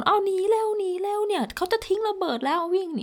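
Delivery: high-pitched mock alarm cry; imitating a panicked shout. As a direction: mimic people screaming at others to flee. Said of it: "บางทีก็วิ่งตะโกน".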